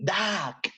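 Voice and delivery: "duck" said with a short open a, /dak/; correct pronunciation. Shown as a demonstration. Teacher modelling the word for pupils, "duck" as /dak/. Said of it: "the correct pronunciation is".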